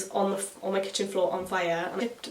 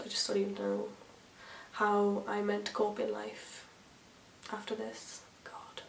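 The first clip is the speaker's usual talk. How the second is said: mock despair; 7 dB quieter than usual. Real, not acted. Mock despair about herself.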